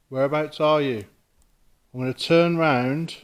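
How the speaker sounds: calling out. Real, not acted. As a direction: project your voice into the empty room. Calling out to a spirit.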